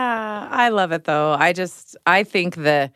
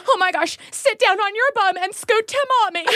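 anxious mom. Retold or imitated. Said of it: "And I go".

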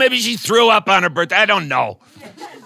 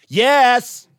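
chatty teacher; 3 dB louder, much slower than usual. Retold or imitated. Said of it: "talked to the intercom like it was a real person".

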